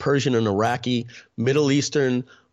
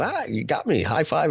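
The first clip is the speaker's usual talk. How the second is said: higher, put-on friendly concession; feigned good cheer; 4 semitones higher than usual. Losing player hiding frustration behind a big smile, feigned cheer. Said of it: "put this big smile and go".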